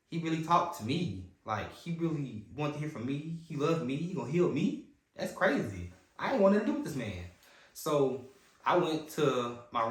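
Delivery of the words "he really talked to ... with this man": retold amazement. Retelling amazement at being heard.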